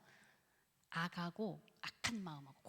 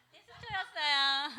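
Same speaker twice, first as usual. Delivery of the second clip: laughing it out, drawn slow; 5 semitones higher, 8 dB louder, slower than usual. Real, not acted. Preacher laughing at the congregation's answer. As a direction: laugh through the reveal to the listeners.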